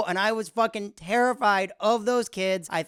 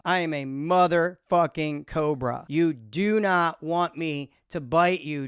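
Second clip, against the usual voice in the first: lower, menacing, motherfucking leaned on; 4 semitones lower than usual. Acted. Comic warning the internet troll, low and menacing. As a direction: drop the voice into a threat.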